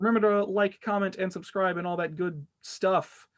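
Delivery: deadpan monotone outro. Shown as a demonstration. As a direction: recite it in a bored monotone. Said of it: "in a monotone voice".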